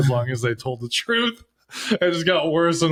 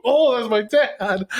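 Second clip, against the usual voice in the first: mock realization; 9 semitones higher, slower than usual. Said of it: "And he's like".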